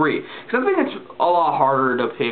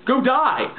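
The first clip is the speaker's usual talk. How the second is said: high, mock-furious ranting; hammed-up angry fan outburst; mock angry commenter; 9 semitones higher, slower than usual. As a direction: parody an enraged commenter. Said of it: "get all worked up and go".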